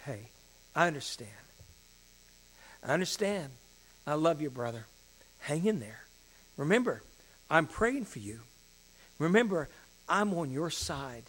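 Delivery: gently voiced, unhurried comfort with long pauses; acting out a forgiving, supportive word; understanding reassurance. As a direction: reassure a failing friend without blame. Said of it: "not with condemnation".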